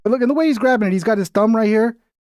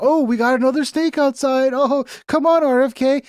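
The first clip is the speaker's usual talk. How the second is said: mock weary staffer; 8 semitones higher than usual. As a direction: sigh it out like a fed-up aide. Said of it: "his social media people are like".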